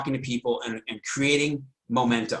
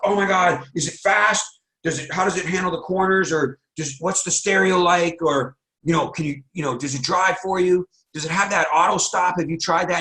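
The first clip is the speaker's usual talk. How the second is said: a friend who can't wait to hear more; eager questions; 4 semitones higher than usual. Retold or imitated. Friend quizzing the new car owner, eager.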